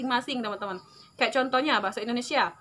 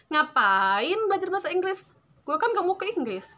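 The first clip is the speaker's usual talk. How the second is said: higher, scoffing voice of a doubter; mock skeptic; 5 semitones higher than usual. Quoting a common excuse to viewers, mock scoffing tone. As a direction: play the lazy skeptic for laughs. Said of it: "pernyataan nomor satu".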